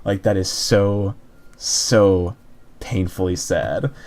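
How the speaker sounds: slow, hollow, lightly voiced dismay; a touch of slow, numb heartbreak; stunned sadness. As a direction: drag it out like the pit in your stomach. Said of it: "You were like".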